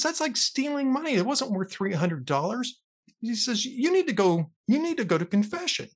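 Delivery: lightly acted indignant dad; appalled father. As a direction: scold a child in mock dismay. Father scolding daughter in joke.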